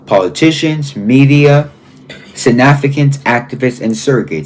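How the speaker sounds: measured, deliberate reading from a political book; emphatic read-aloud. Real, not acted. Host reading a book's first lines to viewers, emphatic read-aloud. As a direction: read it out pointedly, phrase by phrase.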